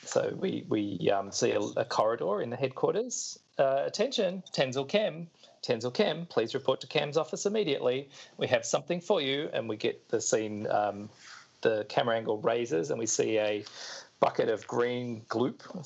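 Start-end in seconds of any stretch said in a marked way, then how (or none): 3.9-9.5 a touch higher, announcing over a tannoy; lightly voiced intercom call; PA announcer. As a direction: page him like a base announcement.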